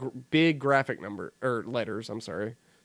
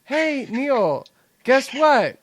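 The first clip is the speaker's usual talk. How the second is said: mock excited quote; 7 semitones higher, much slower than usual. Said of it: "Constance was like".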